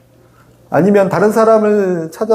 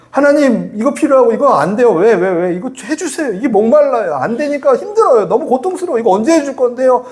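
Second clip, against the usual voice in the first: higher-pitched, acted-out pleading complaint; grumbling complaint; 5 semitones higher than usual. Believer nagging God over unmet needs, grumbling complaint. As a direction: pester God with mock grievances. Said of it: "원망하고 불평해요".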